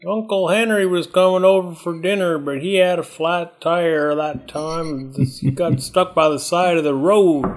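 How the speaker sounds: put-on high, slow old grandpa rambling; lightly voiced doddering grandpa; old man voice.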